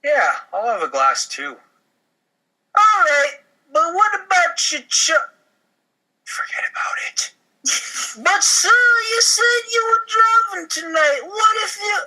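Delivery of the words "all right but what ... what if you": hammed-up Italian waiter; Italian accent. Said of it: "I like doing the Italian accent".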